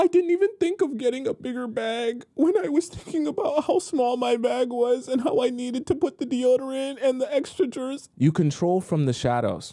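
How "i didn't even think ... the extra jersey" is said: very high, gasping, overjoyed tearful babble. Acting out a woman's reaction to receiving a bag: acting out overjoyed tearful gasping. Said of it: "And you're like".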